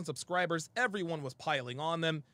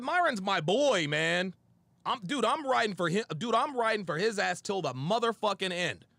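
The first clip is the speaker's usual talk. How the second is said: emphatic loyal vow; 2 semitones higher, 3 dB louder than usual. Retold or imitated. Telling Kevin he rides for Myron, a loud fierce vow. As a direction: swear your loyalty like you mean it.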